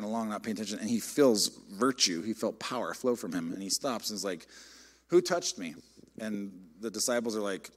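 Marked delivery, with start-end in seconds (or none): 5.1-5.7 urgent question. Retold or imitated. Jesus stops in the crowd.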